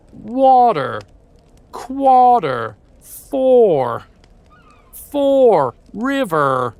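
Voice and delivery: each word shouted high and loud with an overdone final R; exaggerated rhotic words. Shown as a demonstration. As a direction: bark each word, hammering the R. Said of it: "so many R's at the end".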